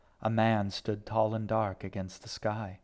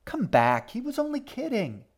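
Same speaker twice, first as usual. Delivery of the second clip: calling out loudly; 14 semitones higher, 3 dB louder than usual. Acted. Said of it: "G shouted after her".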